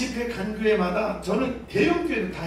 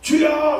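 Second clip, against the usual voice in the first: 주여! climbing high and loud; rising cry; 6 semitones higher, 5 dB louder, much slower than usual. Shown as a demonstration. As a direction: push 주여! upward. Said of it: "올라가요". (끝이 올라가는 주여!)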